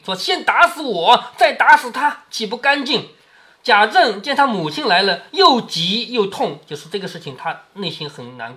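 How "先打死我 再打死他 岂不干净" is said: mother stopping her son; lightly voiced old grandmother. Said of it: "第一句话就是将你一军".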